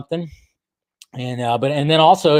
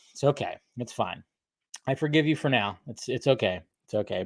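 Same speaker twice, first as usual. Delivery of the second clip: mock wounded; 4 semitones lower, 10 dB quieter than usual. Mock hurt forgiveness.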